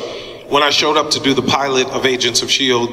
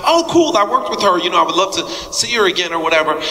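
mock casual excitement; 4 semitones higher, faster than usual. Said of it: "And I was like".

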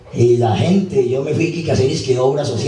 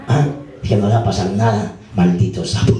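lower, laughing mock scolding; laughing insult; 7 semitones lower than usual. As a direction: voice dropped low and laughing through the words. Mother's joking insult, laughter.

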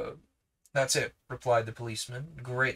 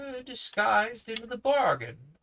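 much higher and louder, thundering accusation; 10 semitones higher, 4 dB louder than usual. Acted. Uncle Felix accuses the policeman, thundering. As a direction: bring the voice up like thunder. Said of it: "raised his voice till it seemed to thunder".

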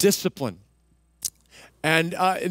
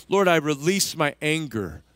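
demonstrated prayer; 3 semitones lower than usual. Shown as a demonstration. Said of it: "this is one of the things I do".

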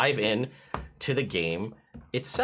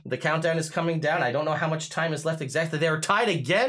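race announcer; 5 semitones higher than usual. Pretend. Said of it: "start talking like a race announcer".

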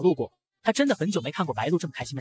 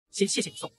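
whisper; 7 dB quieter than usual. Acted. Xie Cheng hands over his coat.

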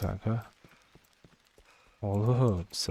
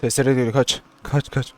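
panicked shout; 3 semitones higher, 9 dB louder than usual. Real, not acted. Chainsaw enemy approaching.

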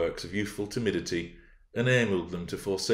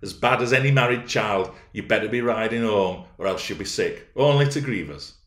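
mildly raised, advising voice; projected servant's advice; calling out; 3 semitones higher, 4 dB louder than usual. Acted. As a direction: call after him to go home. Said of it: "I called out".

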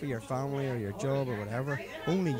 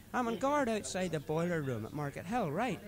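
put-on higher-pitched drunken friend preaching life advice; drunk mate Paddy; 6 semitones higher than usual. Drunk driver lecturing his passenger about responsibility, higher voice. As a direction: lay out your drunken philosophy earnestly.

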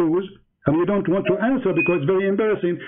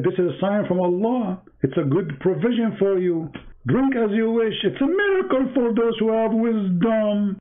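mock preacher voice; 4 semitones higher than usual. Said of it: "He said".

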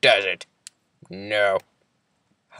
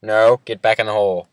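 loud, firm order; firm command; 6 dB louder, faster than usual. Real, not acted. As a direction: bark him back into the hole. Ordering friend back into hole.

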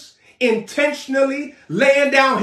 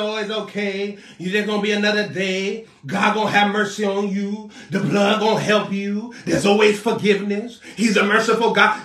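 mock soothing counselor; 3 semitones lower than usual. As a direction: sweet-talk like a fake counselor.

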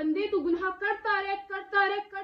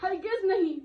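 loud, slow, emphatic no; firm divine refusal; 5 dB louder than usual. Acted. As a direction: refuse absolutely, weighing out each word. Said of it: "अल्लाह कहेगा".

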